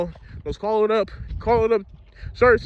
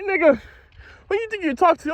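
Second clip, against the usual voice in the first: higher-pitched retold challenge to the bully; angry confrontation; 8 semitones higher than usual. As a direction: throw the question back at him, heated. Confronting the classmate who insulted him.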